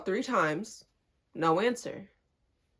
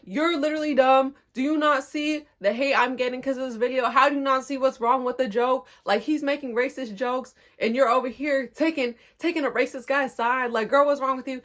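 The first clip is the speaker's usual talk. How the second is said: raised-pitch retold telling-off; going off on her; 3 semitones higher than usual. Telling off the cousin over the comment, going off. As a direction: rant at her without a break. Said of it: "I just started going off on her".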